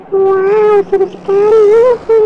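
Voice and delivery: gleeful shouts while flying; excited cheering. Acted. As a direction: cheer like a kid on a thrill ride. Thrilled joyride in flying motorbike.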